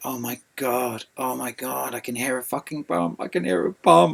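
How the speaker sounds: acted frantic alarm, words tumbling out fast. Retelling swimming toward a car and hearing a pump, the speaker relives own panic. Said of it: "And I started panicking".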